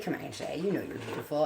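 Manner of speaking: soft, gentle comfort to a friend; kind reassurance. Retold or imitated. To her friend Shay feeling ugly, gently reassuring. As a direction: tell her kindly she's beautiful. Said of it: "I'd be like".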